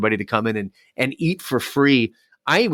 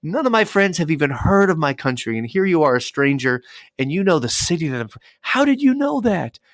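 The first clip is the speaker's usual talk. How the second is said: higher-pitched mock disbelief, building to a high peak; imitating near-tearful amazement; 6 semitones higher than usual. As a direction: retell her astonishment, voice climbing at the end. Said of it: "This girl was almost in tears".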